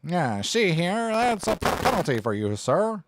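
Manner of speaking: mustache twirling villain. Retold or imitated. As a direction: gloat like a cartoon baddie twirling his mustache. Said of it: "As he twirled his mustache and tied a woman to a train track".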